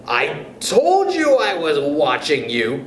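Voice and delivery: gloating hag voice, lightly cackled; cackling old woman. Acted. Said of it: "cackled Missus Twit".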